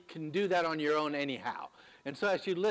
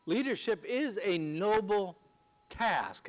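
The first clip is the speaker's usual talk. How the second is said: "task" set apart after a pause; stress on task; 4 semitones higher than usual. Real, not acted. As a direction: lean on "task" as its own weighty word. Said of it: "I put the emphasis on the word task".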